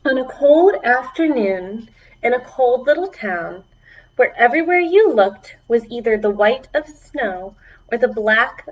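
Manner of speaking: storybook narration for little ones; reading to children. A narrator's reading. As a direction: read it like story time for kids.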